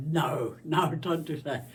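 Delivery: a son's loud protest, lightly voiced; imitating her son. Son objecting to mum's chatty videos, loud protest. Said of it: "he would say".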